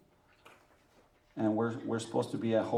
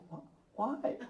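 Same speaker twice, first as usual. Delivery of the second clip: exasperated disbelief; 12 semitones higher, 6 dB quieter than usual. Retold or imitated. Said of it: "And I was like".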